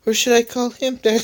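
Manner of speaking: high, cackling villain line; evil laugh. Acted. Villain Spidely taunting her father, high evil cackle. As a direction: gloat and cackle at the end. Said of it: "said Spidey while laughing evilly".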